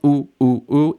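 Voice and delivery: short, punched oohs, one per hop; bouncing oohs. Shown as a demonstration. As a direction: bounce a little on each ooh. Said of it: "jump a little bit in your chair when you're saying it".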